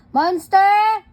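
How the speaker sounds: high, loud accusing call; mock scolding. Parent scolds child who hit her, mock outrage.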